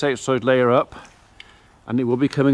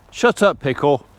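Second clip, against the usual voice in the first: higher and louder scold to the dog; sharp telling-off; 3 semitones higher, 3 dB louder, slower than usual. Real, not acted. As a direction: snap it at the dog. Telling noisy dog to hush.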